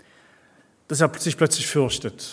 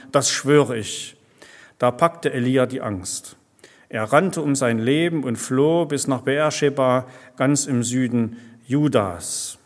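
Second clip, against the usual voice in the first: steady, measured scripture reading to the congregation; Bible reading. Acted. Preacher reads the Elijah story to his congregation, measured storytelling. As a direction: read the passage as a story, clearly and evenly.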